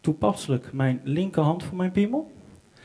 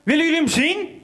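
excited calling; 9 semitones higher than usual. Retold or imitated. Boy calls to mother downstairs.

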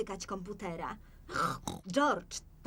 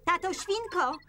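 high, raised call for help; high, brisk shout for someone; 8 semitones higher, 3 dB louder than usual. Acted. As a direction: summon him with a high call. Mother calls father for help.

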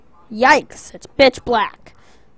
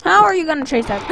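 laughing; 4 semitones higher, faster than usual. Real, not acted. Laughing at game.

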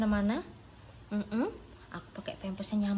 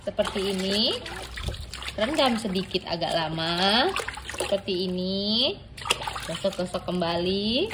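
cooking show host. Acted. Bath narrated like a cooking show.

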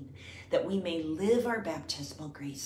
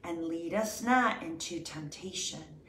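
prayer recitation. Acted. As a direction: pray it evenly and let it settle.

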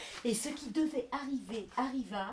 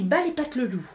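stern shout; 3 semitones higher, 10 dB louder than usual. Acted. Telling off the wolf.

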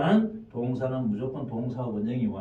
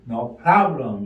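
drilled answer; 8 dB louder, much slower than usual. Shown as a demonstration. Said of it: "이런 식으로 해야 됩니다".

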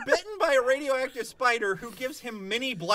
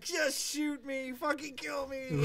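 slow, soft, dying-inside plea; a hammed-up groan of a bored fan; mock despair; 2 semitones higher, 5 dB quieter, slower than usual. Fan suffering through the movie, slow mock misery. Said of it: "and I'll be like".

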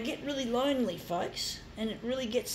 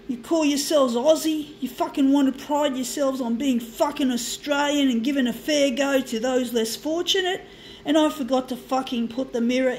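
angry rant; 3 semitones higher, 5 dB louder than usual. Real, not acted. Angry rant at news people.

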